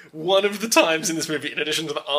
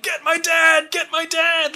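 mock scream; 12 semitones higher than usual. Nancy screaming at the deputy, high mock yell. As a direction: yell it up high like a panicked girl. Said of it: "screaming at, like, the deputy".

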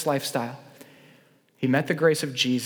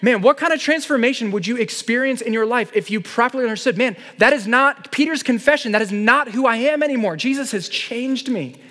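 impassioned appeal; 7 semitones higher, 3 dB louder than usual. Real, not acted.

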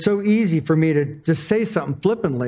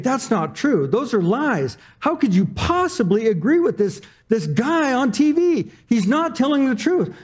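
rising indignant inner rant, climbing higher toward the end; getting mad; 6 semitones higher than usual. Retold or imitated. Man fuming silently as relatives agree with TV news, indignant. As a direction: let the outrage climb as you argue in your head. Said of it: "I was getting mad".

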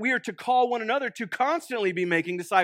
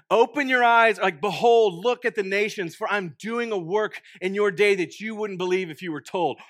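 scripture reading. Acted. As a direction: read it out like a proclamation. Preacher reads the verse aloud.

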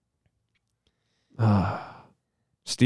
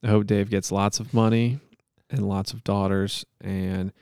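measured, solemn monotone plea; earnest-sounding improvised prayer; mock prayer; 2 semitones lower than usual. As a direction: pray aloud with halting mock sincerity.

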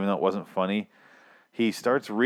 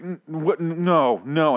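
higher, louder stammered outrage; mad; 6 semitones higher, 4 dB louder, slower than usual. Retold or imitated. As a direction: sputter in retold angry disbelief. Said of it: "I got so mad".

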